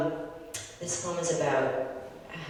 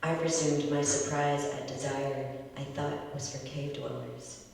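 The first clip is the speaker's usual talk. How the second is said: measured, deliberate poetry reading; poem reading. Acted. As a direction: read it like an elegy at a reading. Poet reads elegy poem aloud.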